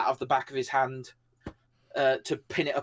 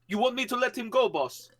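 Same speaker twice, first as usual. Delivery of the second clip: mock-innocent question; 10 semitones higher than usual. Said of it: "I go".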